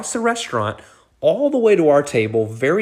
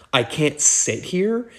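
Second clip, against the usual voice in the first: slow, higher-pitched questioning imitation; mock incredulous; 4 semitones higher, slower than usual. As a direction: draw out the question in mild disbelief, rising at the end. Retold star refused a seat.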